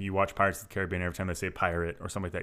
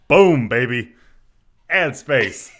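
hype shout; 4 semitones higher, 11 dB louder, much slower than usual. Real, not acted. Hype after ad read.

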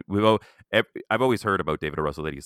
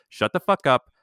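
loud, higher mock yell; retold scream; 8 semitones higher, 5 dB louder than usual. Quoting the director screaming at the assistant director, mock yell. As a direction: belt it like an enraged director. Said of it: "He screamed".

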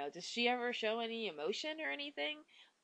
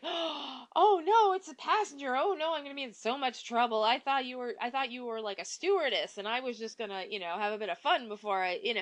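higher, louder, whiny panicked babble; panicked crying kid; 4 semitones higher, 4 dB louder than usual. Retold or imitated. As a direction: play a scared teen blubbering excuses. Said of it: "he just bursts into tears".

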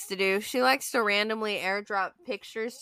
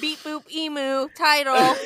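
laughing; 7 semitones higher than usual. Pretend. Robot noises, laughing.

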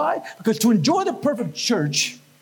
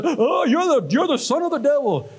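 lightly acted, higher-pitched scandalized priest; mock horrified clergy; 4 semitones higher than usual. Priest and nun condemning an eight-year-old, mock horror. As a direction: imitate an appalled nun's accusation.

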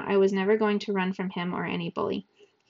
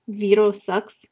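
puzzled repeat; 6 dB louder, slower than usual. Acted. Sal repeats the odd phrase.

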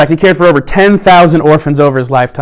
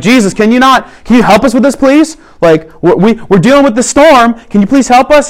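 higher, pleading, a touch panicky; mock panicked plea; 5 semitones higher than usual. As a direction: beg like a scared disciple in a storm. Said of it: "they're freaking out".

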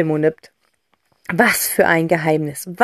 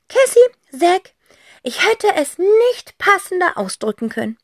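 moved; 11 semitones higher than usual. Acted.

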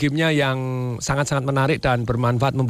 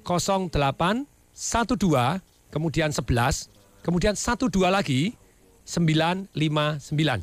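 slowly. Real, not acted. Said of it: "Saya ulangi pelan-pelan".

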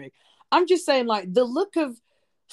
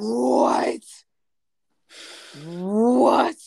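shocked what; 5 dB louder than usual. Real, not acted. Shocked reaction to news.

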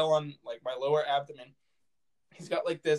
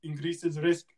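put-on Indian accent slipping towards Russian; lightly faked Indian accent, sounding half Russian; botched Indian accent. Doctor warning the patient of infection, muddled Indian-Russian accent. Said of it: "I sound more Russian than I do".

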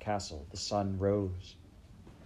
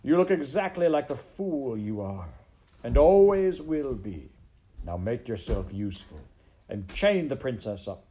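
scornful villain rat; 2 semitones higher, 7 dB louder than usual. Acted. Rat mocking the maid and ordering the princess chained, scornful. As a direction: order them about as a contemptuous villain rat.

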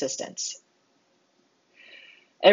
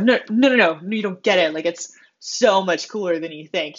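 insistent protest. Acted. Re-enacts own insistent over-explaining.

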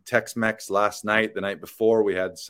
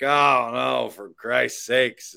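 higher, louder, dragged-out dismay; a cowboy appalled at your tiny car; mock exasperated shout; 4 semitones higher, 4 dB louder, much slower than usual. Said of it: "And he's like".

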